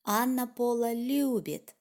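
любит stressed at the end, falling. Shown as a demonstration. Teacher showing the emphasis falls on любит. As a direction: lean on the final любит. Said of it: "emphasis at the end of the sentence".

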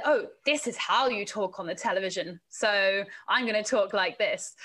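lightly put-on TV presenter voice; imitated TV presenter. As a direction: mimic how people talk on television. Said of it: "trying to copy what I'd heard".

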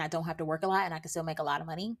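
a quick confiding whisper under the breath; fast whisper. Acted. Sharing her money secret with listeners, fast whisper.

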